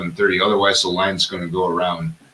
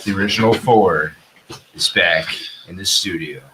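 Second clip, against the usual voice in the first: slow, drawn-out hype announcer read; promo voice; slower than usual. Pretend. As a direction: introduce the show like a network promo. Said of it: "I gotta say something in my promo voice".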